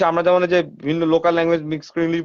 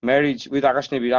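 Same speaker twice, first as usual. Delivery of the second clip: neat Bengali English; 2 semitones lower, much slower than usual. Retold or imitated. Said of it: "আমরা সুন্দর করে বলি".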